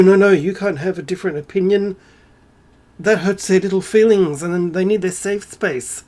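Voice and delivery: put-on protest, easing off; mocking. Mocking those offended by opinions.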